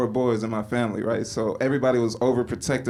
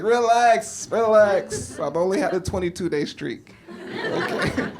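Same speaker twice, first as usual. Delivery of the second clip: mock panicked plea; 8 semitones higher than usual. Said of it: "I'll be like".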